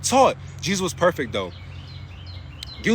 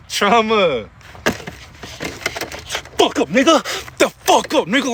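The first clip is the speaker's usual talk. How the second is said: mock yell at trauma; 2 semitones higher than usual. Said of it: "look at your trauma and be like".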